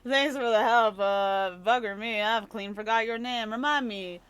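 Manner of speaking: a hint of a salty old sea dog, cheerful; lightly voiced rough old sailor. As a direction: read it like a jolly old rogue, lightly. Voices a game character.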